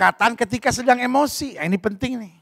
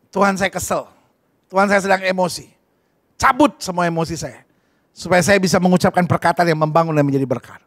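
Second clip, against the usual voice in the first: softer, lower humble prayer; quiet prayer; 4 semitones lower than usual. Pretend. Believer praying calmly to God when angry, soft and low. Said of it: "doa dulu".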